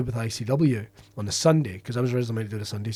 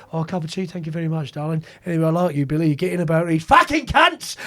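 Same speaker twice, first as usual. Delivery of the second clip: imitating old-school agent; 3 semitones higher than usual. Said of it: "He'd go like".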